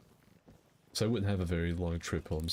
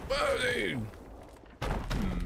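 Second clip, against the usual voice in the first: excited; much slower than usual. Real, not acted. Reacting to fireworks.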